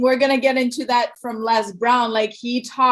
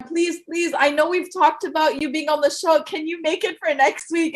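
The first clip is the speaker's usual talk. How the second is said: higher-pitched re-enacted plea; pleading; 6 semitones higher than usual. Host re-enacting her plea to the guest, pleading. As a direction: replay an urgent, imploring request.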